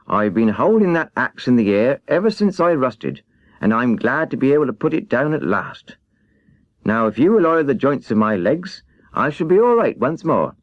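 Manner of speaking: a rusted man finally set free; relieved tin man. Acted. Tin Woodman voiced.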